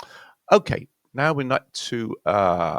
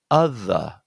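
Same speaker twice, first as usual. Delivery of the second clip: "other" louder on the opening uh, weak schwa after; first-syllable stress; 2 semitones lower, 5 dB louder than usual. Shown as a demonstration. Teacher showing where stress lies, "other" stressed on first syllable. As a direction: hit the first syllable of "other", falling away. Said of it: "stress is on the first syllable".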